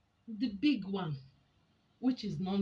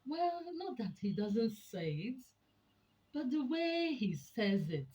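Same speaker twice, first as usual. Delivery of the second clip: drawn-out wifely protest, pitched up; lightly acted wife, slow and higher; complaining wife; 6 semitones higher, 4 dB louder than usual. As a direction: draw out the objection like an aggrieved wife. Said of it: "you hear the woman say".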